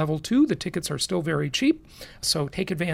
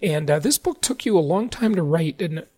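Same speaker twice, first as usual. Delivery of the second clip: voice giving out. Real, not acted. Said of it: "I'm losing my voice here a bit".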